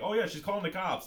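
lightly hammed-up reply; retold alarm. Retelling friend's reply about cops.

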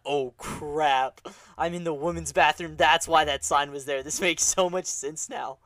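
dawning realization. Retold or imitated. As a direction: realize the mistake in horror. Realizing he's in wrong bathroom.

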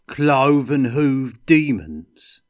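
slow, loud, savouring each word; a dwarf relishing the thought of demons; eager dwarf. A narrator's reading. Gotrek seizing on the demons, slow and loud.

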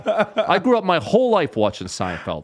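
high-pitched incredulous rant; pissed off. Retold or imitated. Comic reliving his idol taking his slot, incredulous outrage. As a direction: rant in worked-up disbelief. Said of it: "I'm so pissed off".

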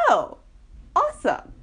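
high, mock-delighted sarcasm; sarcastic awesome. Thinking it about her group, mock-delighted sarcasm. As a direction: fake cheer at bad news.

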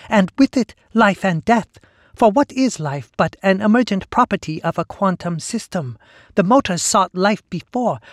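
high, loud zealous hive voice; grandiose monster voice. Acted. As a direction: preach it like a fanatic. Sister Lee preaching her creed.

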